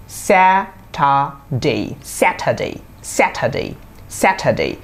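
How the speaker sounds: স্যাটারডে slowly split, then whole, "SAT-hə-day"; correct pronunciation. Shown as a demonstration. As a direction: drill স্যাটারডে with airy t and no r. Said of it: "স্যাটারডে না, এটা কি". (শুদ্ধ উচ্চারণে ভেঙে, তারপর একসাথে)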